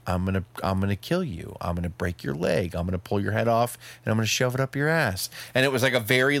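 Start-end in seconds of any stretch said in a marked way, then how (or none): 0.1-5.3 low, calm menacing threat; calm, scary threat. Retold or imitated. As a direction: threaten coolly like a stone cold killer. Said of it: "like, calm, scary, like, promo".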